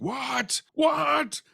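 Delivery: high squeaky double what; high, rising amazed what; stunned disbelief. Retold or imitated. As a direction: gasp it out in total shock. Driver stunned by paid gas.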